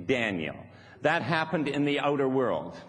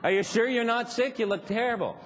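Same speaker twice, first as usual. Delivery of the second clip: mock concern; 8 semitones higher, faster than usual. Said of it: "comes and says".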